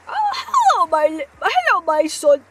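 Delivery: freaky grandma. Pretend. Smoking grandma greets her son, lightly voiced. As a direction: squeak hello like a wild granny. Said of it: "Grandma used to be a freak".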